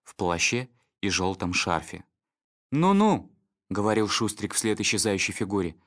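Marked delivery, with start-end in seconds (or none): 2.7-3.3 loud, high scoffing; scornful dog voice. Acted. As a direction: brush it off loudly. Snitter mocks vanishing figure.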